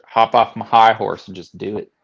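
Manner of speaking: lightly put-on Southern accent; a touch of Southern twang. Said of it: "why I did that accent".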